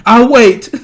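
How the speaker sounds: laughing through the sarcastic dare; mocking laugh, then the demand; laughing taunt. Real, not acted. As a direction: laugh at them while you wait.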